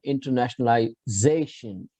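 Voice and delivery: internationalization with the weight on "za", the second-last syllable; stress on penultimate ZA. Shown as a demonstration. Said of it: "the stress will be on".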